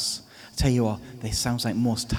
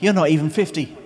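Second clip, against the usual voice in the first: louder, higher sneering retort; fired-back retort; 5 semitones higher, 6 dB louder than usual. Retold or imitated. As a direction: snap it back at him. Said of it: "they fire back".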